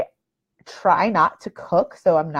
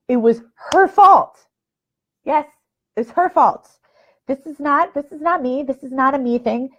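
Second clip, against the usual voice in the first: triumphant blame; 5 semitones higher than usual. Real, not acted. Blaming the mother-in-law's family.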